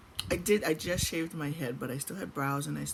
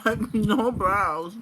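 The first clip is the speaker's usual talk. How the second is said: slow, loud laughing words; 4 semitones higher, 9 dB louder, much slower than usual. Real, not acted. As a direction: drag it out through laughter. Joking about no brows.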